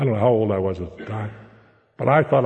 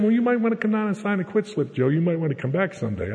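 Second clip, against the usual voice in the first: lightly voiced wife, pitched higher; a hint of the coaxing wife, higher; wife's voice; 5 semitones higher than usual. Wife urging him to quit job.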